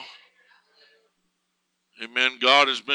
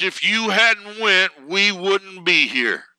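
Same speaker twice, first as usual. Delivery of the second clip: slow, higher-pitched mild cry, imitating a crowd; mock a joyful crowd's scream, drawn out; retold scream; 7 semitones higher, 4 dB louder, slower than usual. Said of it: "they screamed all at once".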